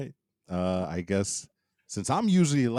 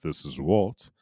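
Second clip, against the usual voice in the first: lower, steadier podcast host voice; Get Geek voice; 4 semitones lower than usual. Shown as a demonstration. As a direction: say your name in your usual host voice. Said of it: "in my Get Geek voice".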